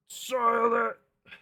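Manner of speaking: high, loud, dragged-out despair; slow dramatic wail. Pretend. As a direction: stretch the wail out slowly. Repeated, slower.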